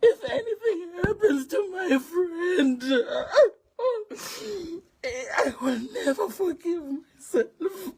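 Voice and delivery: choking up over her friend; crying. Real, not acted.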